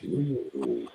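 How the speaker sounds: deep dramatic movie voice; movie trailer voice. Pretend. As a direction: growl it like a trailer narrator. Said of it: "Do a movie voice".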